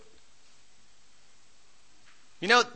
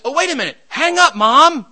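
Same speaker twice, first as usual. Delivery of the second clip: louder, higher call across the house; sudden alert; 8 semitones higher, 10 dB louder than usual. Retold or imitated. Brother on the extension calling to mom, sudden alert. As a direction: cut in loudly to stop someone.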